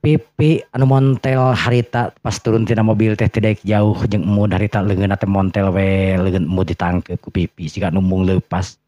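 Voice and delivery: ordinary talk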